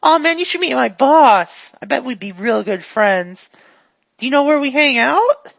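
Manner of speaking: lightly voiced eager goon; a hint of a guileless, upbeat helper; chatty, friendly character.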